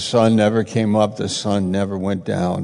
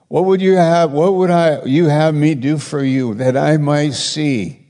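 Jesus asking; 6 semitones higher, 4 dB louder than usual. Retold or imitated. Jesus asks the blind man.

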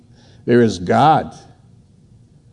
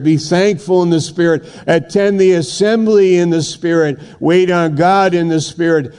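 rhythmic, building exhortation; insistent sermon cadence, slightly raised pitch; fervent preaching; 5 semitones higher than usual. Real, not acted. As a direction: preach it as a driving list of commands.

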